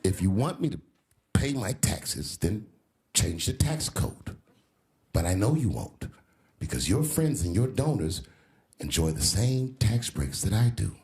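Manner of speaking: deliberate, halting mock challenge; lightly voiced candidate, spacing out each phrase; quoted candidate. Comedian retells the candidate's challenge on taxes, deliberate imitation. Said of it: "And then he said".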